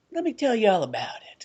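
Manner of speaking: whispered, slick and close; mock sleazy salesman whispering. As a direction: lean in and whisper the pitch. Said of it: "He flips his collar up".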